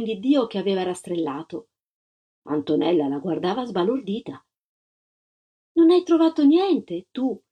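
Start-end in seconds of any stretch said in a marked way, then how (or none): 5.7-7.4 put-on higher, politely curious little girl; gently voiced child's inquiry; polite child's question. A narrator's reading. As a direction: ask courteously, as one child to another. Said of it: "domandò la bambina bionda con garbo".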